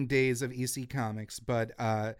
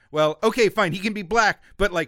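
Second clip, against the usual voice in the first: grudging concession; 5 semitones higher, 5 dB louder than usual. Retold or imitated. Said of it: "they said".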